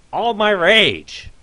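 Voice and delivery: very loud, slow, high roar of fury; raging roar. Acted. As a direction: let all the rage out in one yell. Owner erupts in anger.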